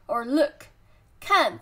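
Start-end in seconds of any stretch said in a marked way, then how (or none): 1.2-1.6 看 with a sharply falling fourth tone. Shown as a demonstration. Teacher drilling a word for learners, falling tone on 看. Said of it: "first turn".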